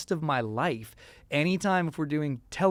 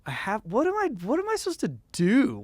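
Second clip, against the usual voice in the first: anxious prayer; 6 semitones higher than usual. Retold or imitated.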